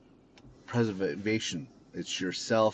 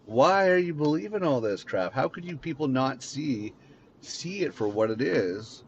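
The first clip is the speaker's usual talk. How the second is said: imagined shout; 6 semitones higher than usual. Retold or imitated. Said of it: "you wanna shout at them and go".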